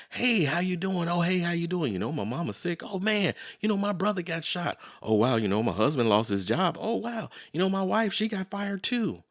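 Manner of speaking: one-up each other's troubles as a mock lament; misery swap. Friends competing over who has the most misery, in a mock woeful voice. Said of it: "It sounds more like this".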